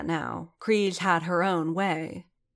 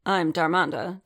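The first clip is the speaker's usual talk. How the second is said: blunt; 3 dB louder than usual. Acted. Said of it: "Din said bluntly".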